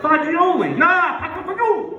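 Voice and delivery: Fagioli said as fazool, high and laughing; mock correction. Relatives correct him again, high laughing fazool. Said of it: "What the hell?".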